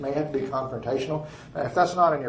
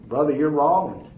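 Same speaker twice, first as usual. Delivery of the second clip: firm; 3 semitones higher than usual. Retold or imitated. Preacher retelling what he told the PhD, firm. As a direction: tell him squarely, without backing down. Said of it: "be a little more firm".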